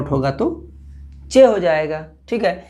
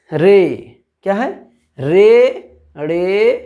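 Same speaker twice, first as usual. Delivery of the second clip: loud called-out रे; reciting letter names; 4 dB louder, much slower than usual. Shown as a demonstration. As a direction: call out रे for the class to repeat. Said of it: "उसके बाद है".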